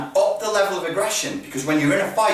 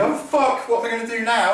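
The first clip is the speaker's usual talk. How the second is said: higher-pitched mock dismay; flustered, higher-pitched what-now; mock panic; 7 semitones higher, much faster than usual. Instructor mimicking a hesitant fighter, in mock panic. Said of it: "So instead of going".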